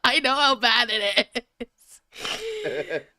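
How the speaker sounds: dreading reading the fic aloud, slow laughing groan. Real, not acted. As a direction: drag it out through a laugh.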